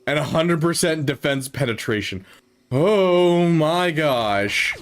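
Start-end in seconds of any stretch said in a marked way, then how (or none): 2.7-4.8 very slow amazed gasp; drawn-out awe. Real, not acted. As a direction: stretch it out in disbelief. Reacting to stat readout.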